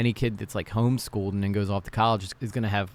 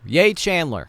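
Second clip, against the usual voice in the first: high, loud little hooray; cheering; 7 semitones higher, 7 dB louder, slower than usual. Real, not acted. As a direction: cheer him on from the sidelines. Cheering the debater he likes.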